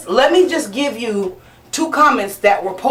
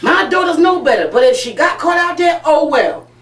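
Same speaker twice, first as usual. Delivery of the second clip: mock shouted comment; 6 semitones higher than usual. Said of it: "So what I said was, under the comment".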